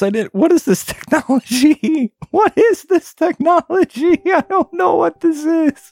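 very high, incredulous squeal; amazed. Real, not acted. Streamer baffled by mouse technology, high-pitched amazement. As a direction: squeak it out in disbelief.

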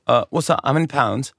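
lightly put-on British accent. American pretending to be British at a shop, British accent. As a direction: pretend British, casual tourist. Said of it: "I would pretend to be British".

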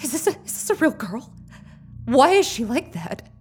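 rushing in rising fear; frightened. Acted. Kendra realising the statue was a girl, fast and afraid.

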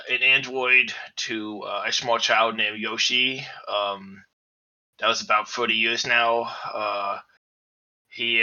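gruff adult voice with a lisp; a tough little robot bear with a lisp; gruff lisping android bear. Acted. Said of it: "Why does he talk like this?".

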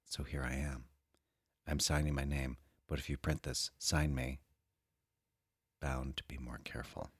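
soft sultry reading voice; sultry perfume ad. Acted. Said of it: "read that with a sexy, sultry voice".

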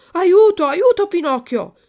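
high, loud cry for help; panicked cry. Acted. Lucignolo begs his friend for help, panicked shout. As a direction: call out in sudden alarm, acted full out.

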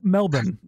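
Melbourne tried as "MEL-bun", with a short ending; attempted local pronunciation. Shown as a demonstration. Host copies the Australian guest, trying Melbourne as "MEL-bun". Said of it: "I can never say it right".

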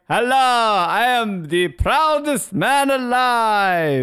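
mock proud shaky speech; nervous speech giver. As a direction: ham up a trembling proud president. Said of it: "he's like".

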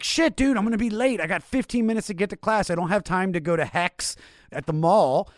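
high, loud panicked rush; freaking out about being late. Retold or imitated. To himself by the car, panicked and high.

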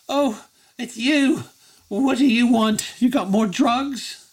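high, weary character voice; slow, high, miserable whine; tearful Effie. Acted. Sobbing Effie notices the visitor, high tearful voice. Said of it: "sobbing into her hands".

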